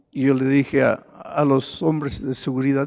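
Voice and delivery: ordinary talk, nothing marked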